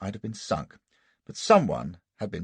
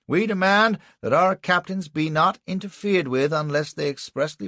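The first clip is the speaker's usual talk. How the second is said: much higher, louder cut-in; Anderson interrupting; 8 semitones higher, 5 dB louder than usual. Acted. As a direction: leap in over the other lawyer. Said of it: "says Anderson".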